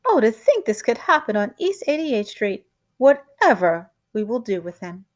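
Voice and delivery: wife fretting to the family; flustered lament. Acted. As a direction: wring hands over it.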